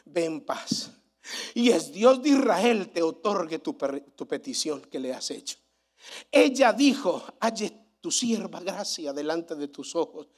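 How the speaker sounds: hushed Bible reading voice; scripture reading. Acted. Reads Eli and Ana's words.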